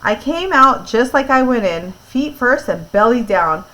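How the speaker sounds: clear, lively read-aloud voice; story narration. A narrator's reading. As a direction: read it to a listening class.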